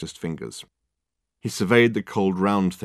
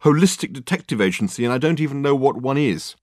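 exasperated exclaiming; 6 semitones higher, 4 dB louder than usual. A narrator's reading. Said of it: "exclaimed Richard".

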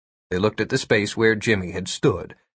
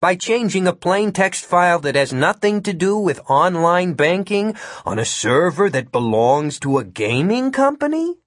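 unruffled question with a sharply rising end; calm question; 6 semitones higher than usual. A narrator's reading. Hacker answers the shouting agent, calm question. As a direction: ask it evenly, lifting high at the end. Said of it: "Jimmy asked calmly".

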